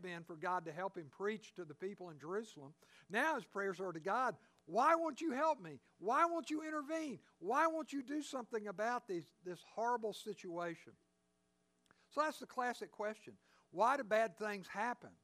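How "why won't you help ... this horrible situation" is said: crying out to God. Retold or imitated. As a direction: demand an answer from God, near a cry. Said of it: "he's crying out to God now".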